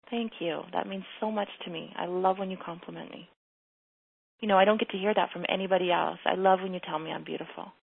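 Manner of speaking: soft, sincere thank-you; tender thanks. Acted. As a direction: accept the compliment softly and sincerely. Coach models tender thanks to husband.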